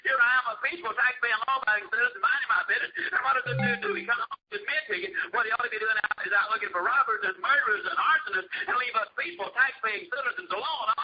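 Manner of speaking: hammed-up fury of a wronged citizen; mock furious. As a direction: imitate an outraged boss ranting about unfair treatment. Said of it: "Mister B was absolutely furious".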